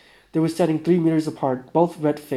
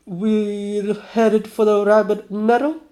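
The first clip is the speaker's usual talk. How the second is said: puzzled question; 7 semitones higher, 7 dB louder, slower than usual. Acted.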